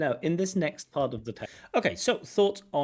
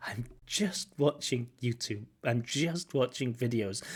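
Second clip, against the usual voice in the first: imitating shame. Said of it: "I absolutely love this intonation".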